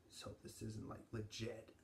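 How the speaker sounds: talking with mouth partly full; chewing while talking. Real, not acted. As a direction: hand cupped over chewing mouth. Seen 0: Bean put in mouth at -1; hand at mouth while chewing.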